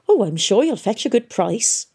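a hint of a genial old townsman, apologetic; lightly voiced old man. A narrator's reading. Rayland reassures Tom.

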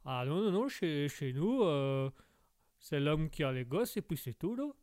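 put-on insistent Québécois accent; insistent Québécois lumberjack. Québécois guest corrects the host, insistent Québécois accent. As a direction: contradict in a broad Québécois accent.

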